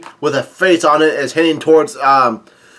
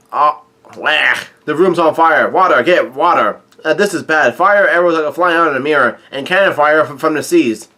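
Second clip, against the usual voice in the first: half-hearted retold cry of alarm; mild mock yell. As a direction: call out the emergency without really yelling. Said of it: "Brook yells out".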